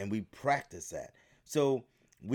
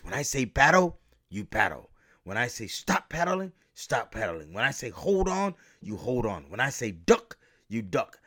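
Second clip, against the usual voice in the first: shouted commands; 6 dB louder than usual. Retold or imitated. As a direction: yell each order over the rapids. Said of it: "when he said it like this".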